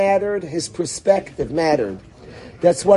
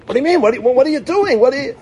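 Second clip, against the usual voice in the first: pitched up, pressing disbelief; incredulous demand; 7 semitones higher, much faster than usual. Retold or imitated. People demanding what the leader does, incredulous. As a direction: act baffled at a leader doing nothing.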